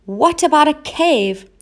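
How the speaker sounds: high, bright guess; lightly voiced cat trying an idea. A narrator's reading.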